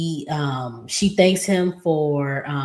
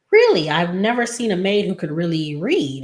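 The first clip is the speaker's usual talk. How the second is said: surprised; 3 semitones higher than usual. Retold or imitated. Acting out his disbelief at maid.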